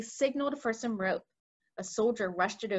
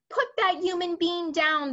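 higher, louder command; BFG shouts; 8 semitones higher, 4 dB louder than usual. A narrator's reading. BFG commanding the giant, loud. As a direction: order it firmly. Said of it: "the B F G shouted".

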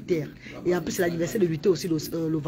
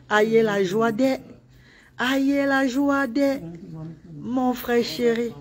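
slow, high, drawn-out greeting; drawn-out joy; 3 semitones higher, much slower than usual. Real, not acted. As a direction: stretch each word out in delight. Joyful greeting of brother. (salut joyeux, lent et aigu)

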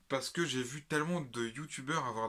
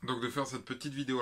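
stuffy blocked nose, scratchy throat; 4 semitones higher, 5 dB louder than usual. Real, not acted. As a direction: talk through a blocked nose. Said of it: "j'ai le nez bouché".

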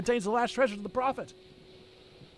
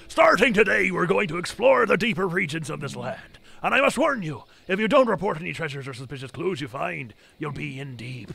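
put-on gruff old fisherman; 5 dB louder than usual. Voices the gruff captain.

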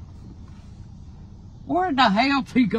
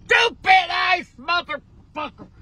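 angry yelling; 4 semitones higher, 3 dB louder than usual. Real, not acted. Grandma scolds pranking grandson.

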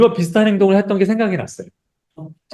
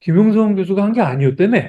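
higher-pitched hint of the old boss; lightly voiced boss; 5 semitones higher than usual. Boss calling the employee back days later, lightly imitated challenge. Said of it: "그분이 다시 부르셔서".

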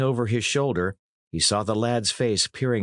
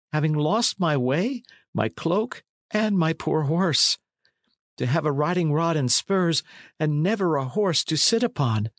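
lightly voiced apologetic lad, higher; a hint of a woeful youth; John Matcham; 6 semitones higher than usual. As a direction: plead politely in a slightly youthful, raised voice. Plays lad apologising and lamenting.

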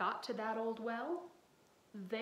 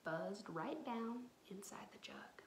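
lively read-aloud storytelling voice; story narration. A narrator's reading. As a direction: read it to the kids with expression. Reading picture book aloud.

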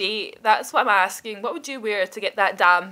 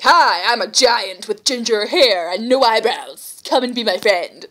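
hammed-up giant introducing herself; awkward giant greeting; 6 dB louder than usual. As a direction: play a clumsy giant asking to be friends. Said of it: "and I'm just like".

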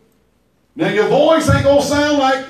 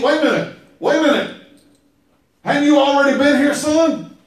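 higher, quicker puzzled questioning; Isaac realising the trick, raised and quick; startled old father; 4 semitones higher, faster than usual. Retold or imitated. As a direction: catch himself, suddenly suspicious.

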